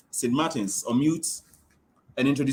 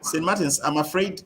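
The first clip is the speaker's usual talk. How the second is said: to someone hard of hearing; 3 semitones higher, 5 dB louder than usual. Real, not acted. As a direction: push the voice through static. Struggling with bad connection.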